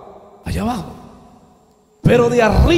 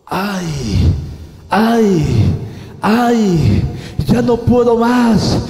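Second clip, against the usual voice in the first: mock wailing crowd; 3 semitones higher, 3 dB louder than usual. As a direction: plead and wail as souls in torment. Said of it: "personas gritando como un coro". (lamento suplicante de almas en pena)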